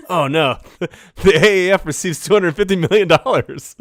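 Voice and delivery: high, loud panicked cartoon villain; dismayed villain. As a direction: squeal it like Gru realizing defeat.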